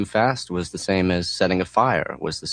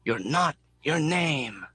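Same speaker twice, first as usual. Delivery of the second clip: yelling; 7 semitones higher, 4 dB quieter, slower than usual. A narrator's reading. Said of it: "The mechanic yells into the wind".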